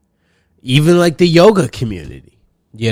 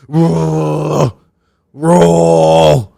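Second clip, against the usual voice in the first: exasperated eye-roll; 3 semitones higher, 3 dB louder than usual. Shown as a demonstration. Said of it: "I roll my eyes twice".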